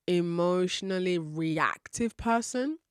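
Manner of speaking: slow, with weight on "reactive"; "reactive" leaned on, unhurried; stress on reactive. Shown as a demonstration. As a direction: lean on the word "reactive" and take it slowly. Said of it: "I emphasize the word reactive".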